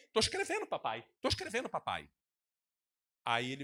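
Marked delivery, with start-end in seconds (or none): 0.1-2.1 mock preacher writing. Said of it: "Ainda faz assim".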